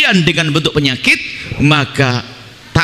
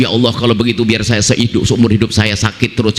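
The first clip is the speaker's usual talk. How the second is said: showy pious prayer; 8 semitones lower than usual. Retold or imitated. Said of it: "jangan sok".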